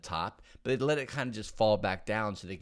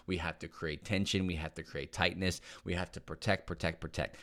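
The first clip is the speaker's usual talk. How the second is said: brain pleading; 3 semitones lower, 4 dB quieter than usual. Pretend. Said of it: "when your body and brain is saying".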